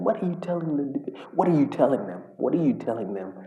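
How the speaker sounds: mock-yell at the manager like he's clueless; exasperated yelling. A fan yelling at the manager in exasperation. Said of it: "I see him yelling".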